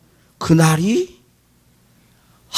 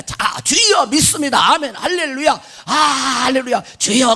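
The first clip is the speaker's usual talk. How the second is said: fervent prayer; 3 semitones higher than usual. Acted. Parodies an easy, fervent prayer.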